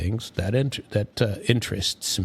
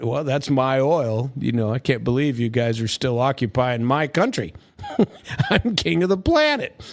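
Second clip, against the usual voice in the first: mock Trump; 3 semitones higher than usual. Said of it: "Trump is, you know, talking about".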